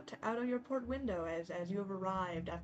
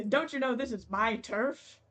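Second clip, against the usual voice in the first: put-on mean girl; 2 semitones higher, 6 dB louder than usual. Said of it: "I was gonna go like".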